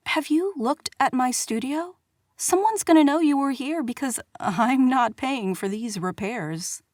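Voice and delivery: indignant outburst. Acted. Kara confronts prince over studio.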